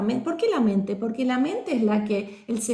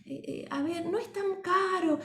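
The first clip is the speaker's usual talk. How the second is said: meek, hesitant seller asking permission, softer and higher at the end; apologetic salesman; 4 semitones higher, 4 dB quieter than usual. Shown as a demonstration. Teacher demoing an unsure salesman to her class, meek and apologetic. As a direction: sound like you're begging pardon for the price. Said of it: "otro que pide disculpas".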